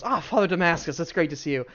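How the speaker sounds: put-on dwarf craftsman greeting an old acquaintance; hearty dwarf. Dwarven man greets visitors.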